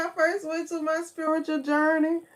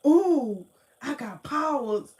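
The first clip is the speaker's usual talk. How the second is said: giddy power trip; 3 semitones higher, 5 dB louder than usual. Retold or imitated. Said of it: "I was like".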